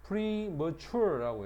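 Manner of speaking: premature를 느리게, 뒤 음절 강조; premature 강세 시연. Shown as a demonstration. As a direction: premature 뒤 강세를 또박또박 들려주듯. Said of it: "뒤에가 있단 말이야". (premature 뒤 음절에 힘주어 천천히)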